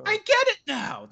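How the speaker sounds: high, wide-eyed convert voice; mock enlightened customer. Customer thanking the owner, hammed-up high awe. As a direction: play the dazzled convert. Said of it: "they'll say".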